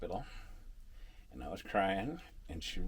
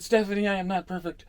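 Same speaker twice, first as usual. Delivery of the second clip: loud, laughing denial, stress on not; laughing protest; 11 semitones higher, 10 dB louder than usual. Retold or imitated. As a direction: protest while cracking up. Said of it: "I was being a smart aleck".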